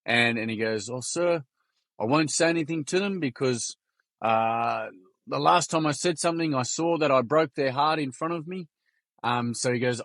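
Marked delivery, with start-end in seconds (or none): 0.9-8.7 lightly voiced little kid, higher pitch; a hint of an earnest schoolboy; grade-three boy. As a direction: retell it as the small boy, pitched up. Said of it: "He's grade three".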